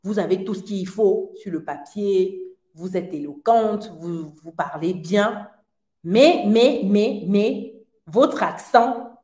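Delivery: stalling on mais before the bad news, imitating him; hesitant recruiter. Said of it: "Il a eu l'honnêteté de me dire".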